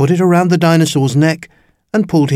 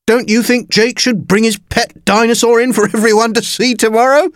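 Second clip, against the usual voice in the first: amused teasing; 10 semitones higher than usual. A narrator's reading. Teacher mocking Jake before the class, high amused teasing. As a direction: tease with a high, amused lilt. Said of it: "he laughed".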